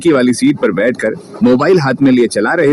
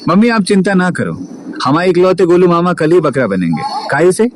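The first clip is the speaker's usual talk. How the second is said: joking mood; 4 semitones higher than usual. Acted. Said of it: "Rohit थोड़ा मजाक वाले mood में बोला".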